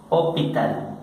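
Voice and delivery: "hospital" sin pronunciar la S, o-pi-tal; S muda. Shown as a demonstration. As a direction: say "hospital" the French way, dropping the S. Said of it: "se anula esta S". ("hospital" con la ese muda, o-pi-tal)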